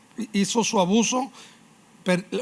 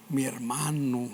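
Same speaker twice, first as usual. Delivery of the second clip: low quiet scheming line; 4 semitones lower, 5 dB quieter than usual. Acted. Voicing Absalón naming his brother.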